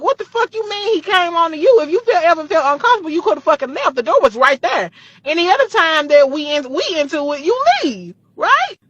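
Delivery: high, loud, enraged yelling at her friend; furious phone scream. Retold or imitated. Screaming at her best friend on the phone over her daddy, high furious yell. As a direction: scream it down the phone, fists clenched. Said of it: "we both screaming at the phone".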